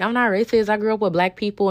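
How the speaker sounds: mock defensive coworker. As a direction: parody her protesting too much. Mimicking coworker's defensive denial.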